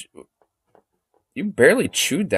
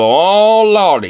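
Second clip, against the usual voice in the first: a slightly louder Southern "Oh, lordy"; Southern exclamation "Oh, lordy"; 4 semitones higher, 4 dB louder, much slower than usual. Shown as a demonstration. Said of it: "type of thing".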